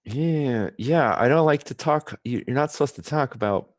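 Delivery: teeth bared, lips apart; through gritted teeth. Shown as a demonstration. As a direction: talk through your teeth. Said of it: "talk through your teeth".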